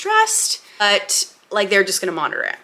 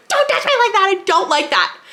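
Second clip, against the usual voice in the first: high, mock-irritated snap; re-enacted snapping; 11 semitones higher than usual. Laboring mother to doula rubbing her arm, re-enacted snap. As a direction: snap it, imitating yourself mid-contraction. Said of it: "I snapped at her".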